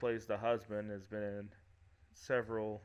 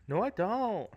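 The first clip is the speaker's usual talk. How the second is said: louder, higher mock protest; indignant friend; 11 semitones higher, 8 dB louder than usual. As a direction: play the friend denying it hotly. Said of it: "She's like".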